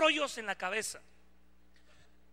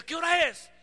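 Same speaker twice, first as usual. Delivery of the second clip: imitated questioner; 9 semitones higher, 7 dB louder than usual. Imita a quien le pregunta.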